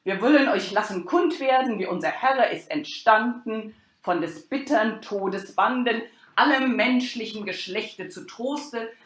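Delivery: loud, stately proclamation to the crowd; the expositor hushing the crowd before the play, loud and solemn; declaiming herald. Acted. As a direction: call the whole audience to silence like a town crier. Expositor opens the play reading.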